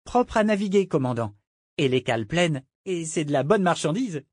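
put-on cabin boy voice, starting high; boyish sailor reporting. Cabin boy telling his commander about the cargo, keen. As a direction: give a keen ship's report.

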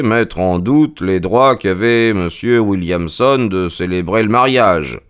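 exposé posé de détective; démontrer point par point, avec assurance; Holmes démonstratif. Acted. Holmes expose ses raisons. (ton raisonneur et sûr de lui)

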